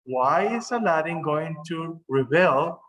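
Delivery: rebel said re-BEL within the question; stress on second syllable. Shown as a demonstration. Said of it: "This one right here is pronounced".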